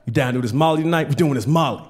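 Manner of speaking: a hint of hyped-up buddies, low; lightly voiced excited friends. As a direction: friends egging him on, low and lazy. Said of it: "My friends are very excited".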